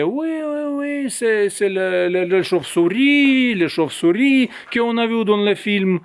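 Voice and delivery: mocking sing-song, pitched high; mocking the official line. Citizen mocking the bat story told on the news, sing-song. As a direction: parrot the official story with scorn. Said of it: "Avant, on disait".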